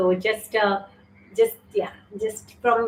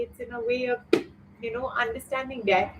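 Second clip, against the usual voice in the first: teary; 3 semitones higher, 5 dB quieter than usual. Real, not acted. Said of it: "I had not intended to tear up".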